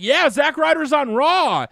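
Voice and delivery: high, slow, mock fan cheer. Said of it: "the crowd got on Twitter, like".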